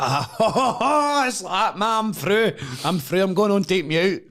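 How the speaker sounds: high, loud, whooping disbelief; elated celebration. Retold or imitated. Contestant told he's through to the show, elated whooping. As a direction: burst out in retold triumph.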